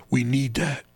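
low, slow whispered urgency; acted whisper. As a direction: whisper it like a secret plea. Acts out one guy's intense line.

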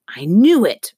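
a delighted loud-whispered crow. Acted. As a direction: crow it in victory, hushed. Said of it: "Early crowed in a loud whisper".

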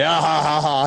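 imitated dismissive laugh; mock laugh. Friend brushing off a supposed prank caller, mock laugh.

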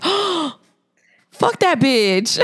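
high gasped "oh", then slow outraged verdict; mock indignation. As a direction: switch to scandalized loyalty, half laughing. Acts out sudden siding with child.

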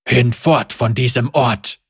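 calm, measured. Acted. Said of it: "seine Stimme ruhig und bedächtig".

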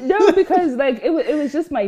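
laughing through the words, voice jumping up; giggling at the question while answering. Real, not acted. Laughing off the question about her dad.

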